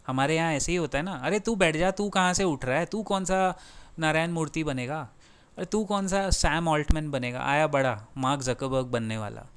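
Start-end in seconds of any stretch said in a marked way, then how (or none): 1.1-9.5 dismissive put-down. Retold or imitated. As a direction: wave him down like a scoffing boss. Same dismissive put-down repeated. (तिरस्कार भरी डांट, "बैठ जा" की नकल)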